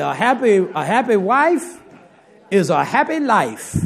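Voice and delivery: slow, loud, stressed proverb; emphatic proverb. Acted. Preacher telling husbands a proverb, slow loud emphasis. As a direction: drive the saying home slowly. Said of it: "I'm telling you".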